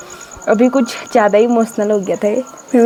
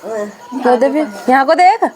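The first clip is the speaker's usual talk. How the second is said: teasing brother; 3 semitones higher than usual. Real, not acted. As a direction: needle him playfully to talk. Sister teasing crying little brother.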